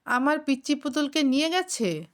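high-pitched, outraged disbelief; enraged shouting. A narrator's reading. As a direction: narrator acting a furious outburst without full volume. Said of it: "রক্তচক্ষু নিয়ে চিৎকার করে উঠল".

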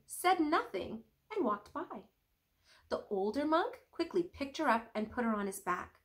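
reading a picture book aloud; storybook read-aloud voice; story narration. A narrator's reading. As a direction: tell it gently to the kids. Reads story aloud to kids.

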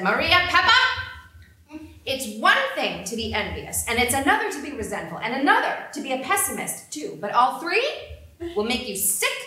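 loud, high telling-off in front of everyone; stern scolding. Retold or imitated. Grandmother marching past the queue to scold Maria Papa, loud and stern. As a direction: put her in her place.

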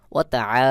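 short ওয়া তা, long throaty আ; elongated vowel. Shown as a demonstration. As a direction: draw out the final আ. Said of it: "এখানেও এক আলিফ টান রয়েছে". (আ-তে এক আলিফ টান)

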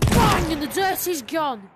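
a touch of a loud ad pitchman; hint of Barry Scott's ad voice; Barry Scott impression. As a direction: bellow the slogan like a TV cleaning ad. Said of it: "I just love saying Barry Scott's catchphrase".

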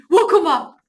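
loud caveman grunt of 우쿠마. Shown as a demonstration. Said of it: "원시인 같아가지고 우쿠마라고". (원시인처럼 우쿠마)

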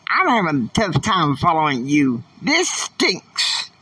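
high, exasperated griping that jumps sharply up; mock-irritated whine at God; complaining to Heavenly Father, exasperated and high; angry complaint. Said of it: "I was like angry at Heavenly Father".

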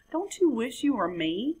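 high, dismissive sing-song; smug frog. Acted. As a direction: brush it off with smug pity. Frog taunts coati.

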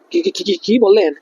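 stuttering in disbelief on the first word; shocked stammer. Acted. Client hears the constable has resigned, shocked stammer. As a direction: stammer the question out, stunned.

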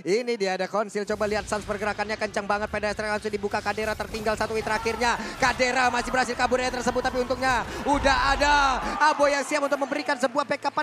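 brisk live match commentary; esports caster. Acted. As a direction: call the action as it happens.

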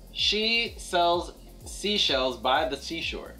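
slow, careful tongue twister; slow it down to model it; slow demonstration. Shown as a demonstration.

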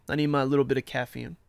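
usual speaking voice

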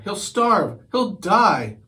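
put-on panicky girl. Debbie panicking about kitten.

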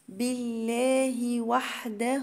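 drawn-out tajweed chant, each syllable held; slow Quran recitation. Shown as a demonstration. Teacher recites the verse to students as a slow chant. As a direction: recite it slowly for the students, holding the long vowels. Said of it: "مد أربع حركات".

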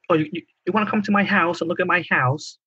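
a hint of whiny Long Island accent. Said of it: "They just have an annoying tone".

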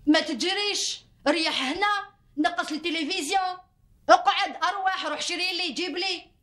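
wife mimicking her husband's bossy demands; mock husband's orders. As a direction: snap out his orders the way he does. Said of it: "سادي غير في العياط".

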